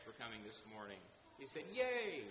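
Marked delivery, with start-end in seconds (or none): 1.7-2.3 high, loud cheer of "yay"; gleeful mock yell, pitched way up; excited child's yell. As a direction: imitate an excited kid yelling big. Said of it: "yelled it out real big".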